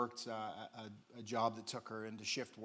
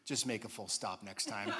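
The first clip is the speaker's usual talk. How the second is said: laughing through the cop's line; 3 semitones lower than usual. Retold or imitated. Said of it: "he goes".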